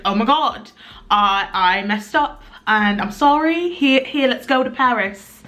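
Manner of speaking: loose, badly faked British accent; apologetic boyfriend in a wobbly mock-British accent; attempted British accent. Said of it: "don't even think he's British".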